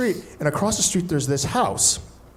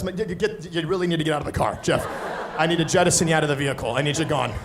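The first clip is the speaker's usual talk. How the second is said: stern; faster than usual. Retold or imitated. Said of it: "I got really stern".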